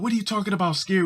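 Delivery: high, offended mock girl; a girl protests at the boys' teasing; indignant girl. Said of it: "They'd be like".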